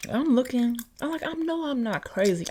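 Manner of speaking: can't believe it's gone; rising panic over the missing jar; frantic search. Retold or imitated.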